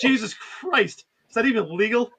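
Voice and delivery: a slow, drawn-out, disbelieving exclamation; mock shock. Cohost acting out a character stunned by the brutality, slowly. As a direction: stretch it out like a stunned bystander.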